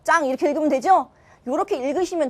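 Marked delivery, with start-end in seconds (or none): 0.0-0.3 짱 starting on a tense, unaspirated jj; tense-consonant reading. Shown as a demonstration. Teacher showing the siot cluster rule, 짱 with tense jj. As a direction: read 짱 with a hard doubled first consonant. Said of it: "맨 끝에 거를 된 소리를 읽으면 돼".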